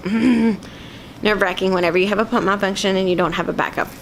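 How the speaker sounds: short of breath, catching breath. Real, not acted. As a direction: talk while winded and breathing hard. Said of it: "sorry, I'm catching my breath".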